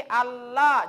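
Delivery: Allah with the tongue on the teeth; Allah said with the tongue touching the teeth; wrong lam. Shown as a demonstration. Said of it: "Kalau mau tempel di gigi". (Allah dengan lidah menyentuh gigi)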